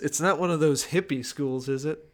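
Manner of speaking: lightly voiced old Japanese man; a hint of an elderly Japanese master. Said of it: "Your old Japanese voice is, uh, pretty spot on".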